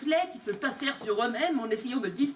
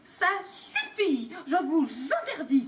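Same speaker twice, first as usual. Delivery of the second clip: panicked exclamation; 4 semitones higher than usual. Acted. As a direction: blurt it in panic. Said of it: "s'exclama l'oncle Vernon, pris de panique". (oncle Vernon paniqué)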